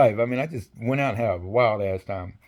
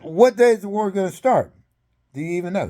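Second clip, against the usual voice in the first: mock challenge; 8 semitones higher than usual. Retold challenge to the general.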